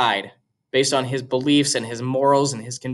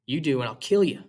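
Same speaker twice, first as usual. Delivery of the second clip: put-on boy's voice; 4 dB quieter than usual. Jim answers Scout's threat.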